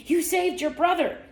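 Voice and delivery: high, proud exclamation; father's delight. A narrator's reading. Father greets Loretta after rescue, high proud praise. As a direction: echo the praise with high excitement.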